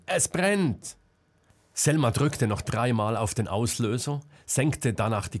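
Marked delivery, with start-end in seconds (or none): 0.1-1.0 high, urgent cry of fire; panicked fire warning; alarmed shout. A narrator's reading. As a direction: scream the warning. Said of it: "schrie Marcel".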